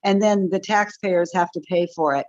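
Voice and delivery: dry mock praise, not meant; sarcastic. Real, not acted. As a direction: say it sarcastically, pretending to love it. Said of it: "I'm being sarcastic here".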